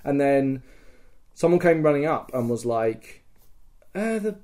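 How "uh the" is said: high, sustained retold call; imitated messenger alarm. Messenger reports the second coming, mock alarm. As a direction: raise it like a lookout's report.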